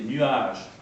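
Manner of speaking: "nuage" in two syllables, nu-age; "nuage" with a full u before age; diaeresis. Shown as a demonstration. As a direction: separate the vowels in "nuage": nu-age. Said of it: "en deux syllabes".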